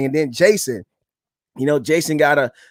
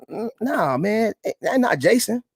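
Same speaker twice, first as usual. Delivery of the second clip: disbelief; 7 semitones higher, 4 dB quieter than usual. Retold or imitated. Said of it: "And I was like".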